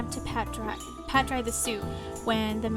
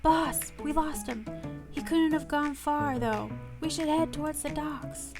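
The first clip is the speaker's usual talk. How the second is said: lightly voiced, higher-pitched underling; urgent henchman; 5 semitones higher than usual. Suited men reporting to their boss, mildly urgent.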